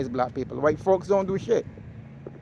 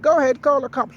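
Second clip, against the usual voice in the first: retold dare; 10 semitones higher, 7 dB louder than usual. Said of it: "He said".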